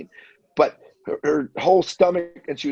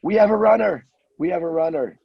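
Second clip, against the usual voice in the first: loudspeaker announcement; 4 semitones higher, faster than usual. Retold or imitated. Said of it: "on the loudspeakers, you hear".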